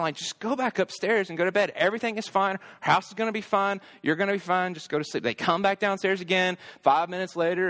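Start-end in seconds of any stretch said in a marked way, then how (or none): 0.2-5.2 higher-pitched retold exasperation; frustrated dad. Dad sending scared kids back to bed, retold frustration. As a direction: send them off with mock impatient reassurance. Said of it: "I'm just so frustrated".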